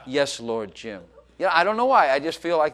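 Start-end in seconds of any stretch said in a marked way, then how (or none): 0.1-1.0 laughing mock reply. Mock wife answering husband.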